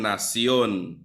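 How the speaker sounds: "nacion" with the stress on the final on; stress on last syllable. Shown as a demonstration. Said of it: "where the stress goes on the own".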